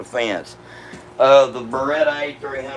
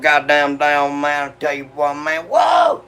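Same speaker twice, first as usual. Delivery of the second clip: a hint of Boomhauer, then a sudden yelp; Boomhauer impression; 3 semitones higher than usual. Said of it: "I sound like Boomhauer".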